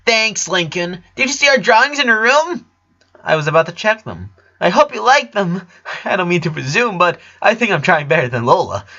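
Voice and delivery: put-on chirpy kid sister, a touch smug; narrator's little girl voice; little sister's voice. A narrator's reading.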